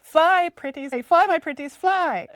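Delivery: high, loud witch screech; old hag. Retold or imitated. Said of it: "it sounds".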